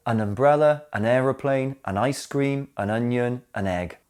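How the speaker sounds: unstressed "an", weight on "umbrella", "aeroplane", "ice cream", "onion", "egg"; stress on nouns. Shown as a demonstration. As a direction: list them with "an" light and each noun stressed. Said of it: "Notice the stress is on the noun".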